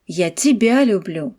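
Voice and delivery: тебя stressed, falling pitch on it. Shown as a demonstration. Teacher to students, stress on тебя. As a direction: lean on тебя so it means it is you I love. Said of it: "on met en avant le mot тебя".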